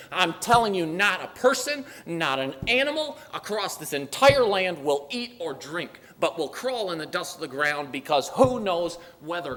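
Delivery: impassioned retold command; urgent decree. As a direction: proclaim it loudly to the whole land. King's urgent decree, acted out.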